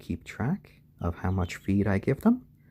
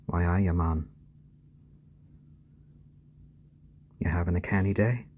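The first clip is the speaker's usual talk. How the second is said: Geordie; 3 semitones lower than usual. Shown as a demonstration.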